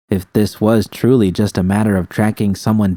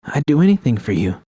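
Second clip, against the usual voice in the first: lightly voiced Judy, raised and pleading; a hint of Judy's trembling devotion; Judy, tearful love; 6 semitones higher than usual. Judy swears to V she would do anything, mildly higher pleading.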